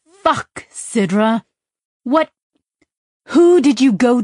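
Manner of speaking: shocked friend shouting questions; alarmed outburst. Acted. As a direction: blurt it out in rising alarm. Pepper alarmed, demanding answers.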